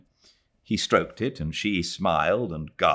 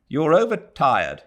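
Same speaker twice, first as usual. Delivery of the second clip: mild cry; 8 semitones higher, 5 dB louder than usual. A narrator's reading. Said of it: "he cried".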